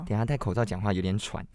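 slightly breathless behind a mask; short of breath talking. Real, not acted.

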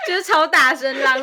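words broken by laughter; laughing while talking. Real, not acted. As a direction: laugh through the line.

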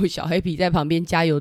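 laughing through the words. Real, not acted. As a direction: chuckle as you read. Laughing while reading the page. (笑着说)

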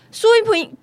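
高声怒喊名字; 提高嗓门冲着助理吼; 破口大骂. Retold or imitated. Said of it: "轩轩就整个破口大骂". (高声怒骂助理的名字)

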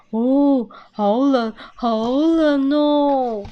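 mildly hammed-up chilly groan; feeling cold. A narrator's reading. Squirrel dad poking his head outside, feeling cold. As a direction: complain of cold with long drawn-out words.

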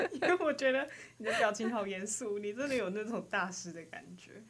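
words pushed out through suppressed giggles; trying not to laugh. Real, not acted. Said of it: "我在憋笑".

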